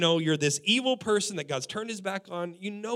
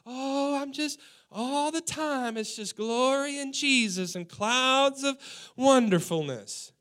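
high, slow dreamy sing-song; kooky Christian; 4 semitones higher, slower than usual. Retold or imitated. Mocking a kooky Christian, airy and dreamy. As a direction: float it like a blissed-out saint. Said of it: "kooky Christians that is just like".

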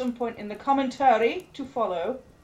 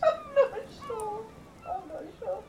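laughing; 12 semitones higher than usual. Real, not acted. Laughing at the prawn question.

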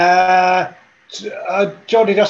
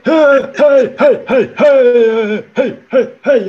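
shouting; 5 semitones higher, 5 dB louder, slower than usual. Acted. Old father yelling over others.

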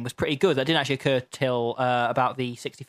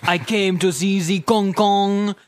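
slow, put-on De Niro drawl; 4 semitones higher, slower than usual. Tourist complaining about missing King Kong, De Niro style. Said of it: "Pulling the De Niro face while you're doing it".

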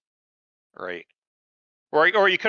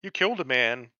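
pearl-clutching Superman; 3 semitones lower than usual. Retold or imitated. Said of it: "Superman's over here, clutching his pearls".

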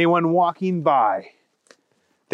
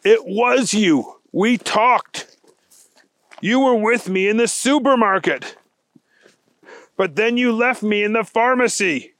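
raised, insistent storybook voice; confused special agent; 6 semitones higher than usual. Acted. Wendell accusing Thunder Kitty, confused. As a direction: insist with baffled emphasis. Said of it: "Wendell Blaze was very confused".

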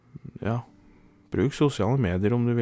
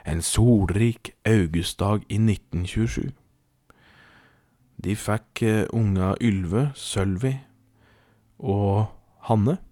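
animated storytelling in a steady measured flow; story narration; slower than usual. A narrator's reading. Podcast host tells listeners a tall tale, storytelling.

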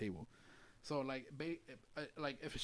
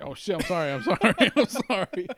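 a light imitation of a panicked apologising lady, higher and louder; flustered Chinese lady; 7 semitones higher, 8 dB louder than usual. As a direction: mimic her frantic apologies, laughing. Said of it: "She was just like".

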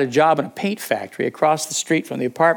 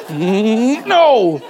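startled no; 8 semitones higher, 6 dB louder than usual. Retold or imitated. Repeats friend's refusal, laughing.

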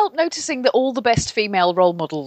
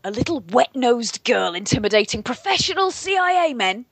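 rigid-shouldered resentment. Retold or imitated. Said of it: "rigid-shouldered resentment".

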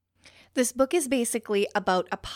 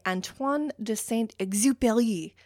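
attempted French accent on the name. Shown as a demonstration. Podcaster about to butcher an author's name, amateur French accent. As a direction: have a careful go at a French accent. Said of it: "that's my French accent".

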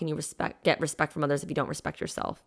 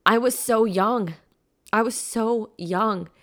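choked up, higher and slowed, fighting tears; emotional; 6 semitones higher, 4 dB louder, slower than usual. Real, not acted. Host overcome recalling her young self, higher and slow. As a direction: say it as it hits you, raised and slow. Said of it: "I'm emotional right now".

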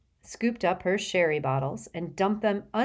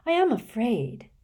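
theatrical seer, aggrieved; 7 semitones higher, 4 dB louder than usual. Acted.

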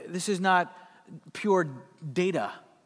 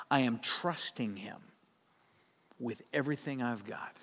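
quiet trusting vow; 6 semitones lower, 6 dB quieter than usual. Acted. Believer voicing total trust in God, hushed. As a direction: lower and softer, half whispered.

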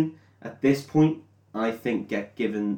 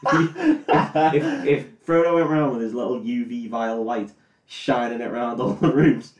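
laughing; 4 dB louder, slower than usual. Real, not acted. Laughing through a silly joke.

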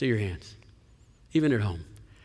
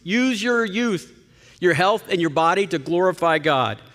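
passionate plea; 5 semitones higher than usual. Retold or imitated. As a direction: press the plea harder and higher. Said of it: "he's saying this with great passion".

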